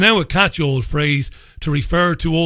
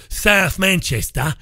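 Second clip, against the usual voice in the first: mock accent on SOUTH MANCHESTER, "South" flattened towards "Sath"; slow, exaggerated accent, "Manchester" ending in an open "-tah"; put-on local accent; 4 semitones higher, slower than usual. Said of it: "we don't speak like that up here".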